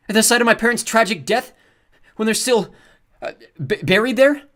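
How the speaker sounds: loud, high, grief-stricken indignation; pompous and powerful. A narrator's reading. Luke faking a grief-stricken heir to the head guard. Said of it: "sound every bit as pompous and powerful".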